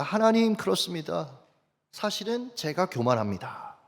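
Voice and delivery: soft, subdued confession in prayer; retold tearful repentance. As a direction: drop the voice to admit fault, imitated. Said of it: "펑펑 울면서 회개했습니다". (나직이 회개하는 기도 재연)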